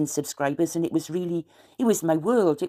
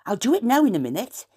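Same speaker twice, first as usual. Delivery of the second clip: Wenglish phrase; 6 semitones higher, 3 dB louder than usual. Shown as a demonstration. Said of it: "it's very common around here if you say".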